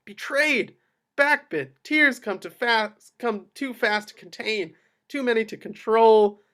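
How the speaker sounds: high, loud, urgent narration; rising emotion. A narrator's reading. Narrator swept up in Waters' discovery, high and loud. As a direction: let shock and heartbreak pour out.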